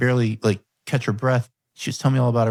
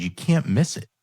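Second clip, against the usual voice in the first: usual speaking voice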